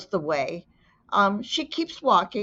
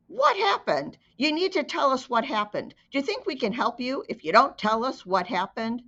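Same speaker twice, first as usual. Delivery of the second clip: higher, pressing police questions; pushy interrogation; 5 semitones higher than usual. Acted. Officers pressing a terrified child for answers, insistent. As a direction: pile the questions on her.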